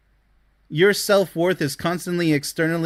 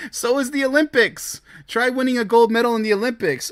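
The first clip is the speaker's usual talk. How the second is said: scornful retort; 7 semitones higher than usual. Real, not acted. Scoffs at the argument.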